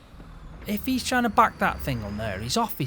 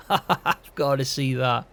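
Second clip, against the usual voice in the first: said through a chuckle, slowed; amused, can't wait to watch; laughing; slower than usual. Real, not acted. Laughing at George's shouting.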